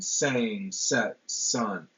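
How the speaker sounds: "Sang", "set", "sun" each given its own separate stress; stressed syllables. Shown as a demonstration. Lecturer picking out alliterating words for the class, each stressed. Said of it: "All those syllables are stressed".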